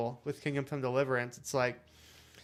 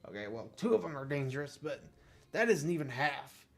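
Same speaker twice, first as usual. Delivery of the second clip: lightly voiced put-upon park keeper; a hint of a harried official grumbling; exasperated groundskeeper; 2 semitones higher than usual. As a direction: grumble mildly as an overworked groundskeeper.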